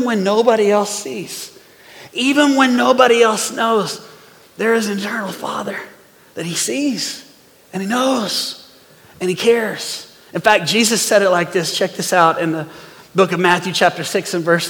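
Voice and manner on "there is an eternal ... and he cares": soft reassurance. Real, not acted. Reassuring that God cares.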